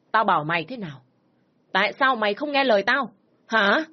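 father yelling at his daughter, rising in fury; angry shout. Acted. Angry father scolding his disobedient daughter, shouting. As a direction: bark it out, furious parent. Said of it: "Ông Năm lại quát lớn".

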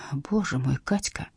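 soft, low moan of despair. A narrator's reading. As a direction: let "Боже мой" sink into a quiet groan. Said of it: "застонала Ирина".

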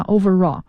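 overall joined up as over-RALL; linked r. Shown as a demonstration. Teacher telling listeners what they will hear, overall linked with r. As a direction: overall with r linking into "raw". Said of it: "这种连读是raw".

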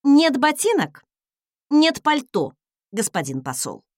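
clipped, final retort; curt retort. Acted. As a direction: snap it shut. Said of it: "отрезала я".

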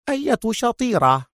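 high, puzzled question; surprised. A narrator's reading. Waitress puzzled by Mona's complaint, high surprise. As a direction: ask it as if caught off guard. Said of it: "في دهشة".

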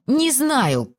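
high-pitched falling reply; helpless answer. A narrator's reading. Wife answers rapid interrogation. (высокий беспомощный ответ)

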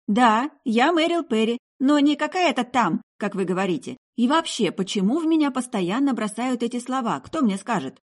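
high, loud, offended protest; outraged young woman, pitched high; indignant girl. Acted. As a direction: complain with wounded pride. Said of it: "возмутилась девушка".

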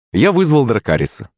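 ordinary delivery

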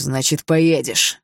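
slow, loud final word; father forcing his son to obey; furious insistence. Acted. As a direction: hammer it down.

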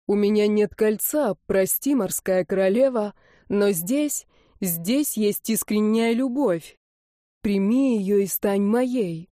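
mean every word, gently; tender proposal. Acted. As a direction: boyfriend tenderly proposing to his girlfriend. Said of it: "нежно спросил Дэн".

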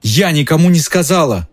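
high, upset cry; shouting. A narrator's reading. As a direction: yell it at Lupin in betrayal. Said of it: "кричала Гермиона". (Гермиона кричит на Люпина, высоким голосом)

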